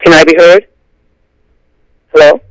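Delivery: normal talking voice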